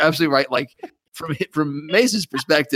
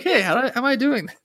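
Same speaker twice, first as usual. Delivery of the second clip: quick, higher mock astonishment; amazed; 8 semitones higher, faster than usual. Coulson hits every target to his own surprise, amazed. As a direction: imitate someone baffled by his own skill. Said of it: "he's just amazed".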